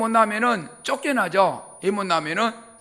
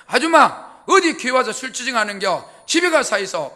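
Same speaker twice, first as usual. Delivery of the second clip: scolding pastor; 2 semitones higher, 4 dB louder than usual. Retold or imitated.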